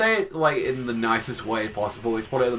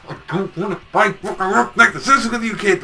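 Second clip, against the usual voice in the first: whiny mock yell; 7 semitones higher, 6 dB louder than usual. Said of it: "And he's like".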